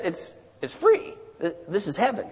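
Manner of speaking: mildly puzzled, hushed answer; patient explanation. Acted. Peter's first, patient answer in joke.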